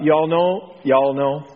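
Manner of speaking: a little Texas drawl on y'all. Real, not acted. Preacher catching himself addressing the congregation, slight Texas drawl. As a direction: slip lightly into a Texas drawl. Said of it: "there's a little Texas drawl there".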